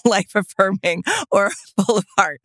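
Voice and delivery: real amused laughter breaking in; laughing as you explain yourself; laughing while talking. Real, not acted. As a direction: protest through a laugh. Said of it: "I'm laughing because".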